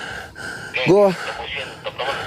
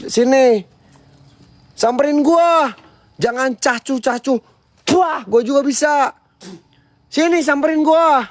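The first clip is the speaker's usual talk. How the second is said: taunting dare; 5 semitones higher than usual. Real, not acted. Daring the ghost, higher voice.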